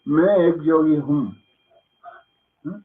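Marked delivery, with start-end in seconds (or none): 0.0-1.3 Hindi sentence said slowly; Hindi phrase. Shown as a demonstration. Teacher demonstrating the phrase in Hindi, slow and careful. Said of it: "Yo soy un yogi".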